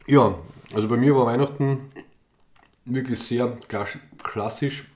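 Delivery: kauend sprechen; mit vollem Mund. Real, not acted. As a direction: redet mit einem Keks im Mund. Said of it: "ich esse gerade einen Keks". (mit vollem Mund sprechen)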